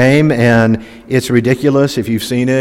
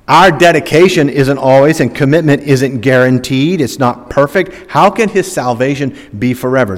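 usual speaking voice

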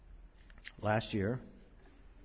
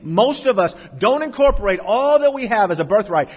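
pulpit delivery building higher and louder; emphatic preaching; 7 semitones higher, 8 dB louder than usual. Acted. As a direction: build it up for the congregation. Preaches at full force.

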